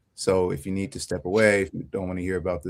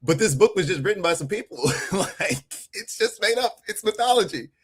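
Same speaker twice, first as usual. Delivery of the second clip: much higher, airy mock voice poking fun; mock dismissive; 10 semitones higher than usual. Mocking skeptics who call the Bible made up, in a high voice. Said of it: "what we're just saying is".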